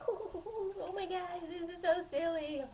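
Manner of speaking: high, giggling hoots; giggly. Retold or imitated. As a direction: giggle like naughty kids. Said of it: "So my sister and I were like".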